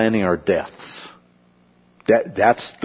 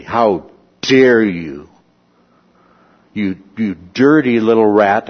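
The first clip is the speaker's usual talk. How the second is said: mock furious scolding. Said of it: "two R's in dirty and two T's in rat".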